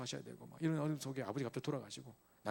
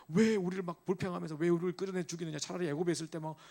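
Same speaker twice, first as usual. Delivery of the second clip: loud, higher griping at Moses, easing off toward the end; complaining people; 4 semitones higher, 3 dB louder than usual. Retold or imitated. Israelites complaining to Moses at the Red Sea, loud and aggrieved. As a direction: whine and accuse like a frightened crowd. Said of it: "하면서 막 모세한테 불평하고 난리라".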